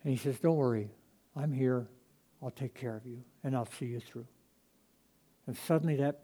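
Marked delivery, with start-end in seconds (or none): 0.4-4.3 soft, hushed reassurance; reassuring God. Acted. God reassuring a fearful believer, soft and tender. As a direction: promise tender protection.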